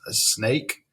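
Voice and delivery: ordinary talk, nothing marked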